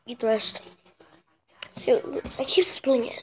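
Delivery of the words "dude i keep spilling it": whispered complaint; whispering. Real, not acted. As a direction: mutter it as a whisper.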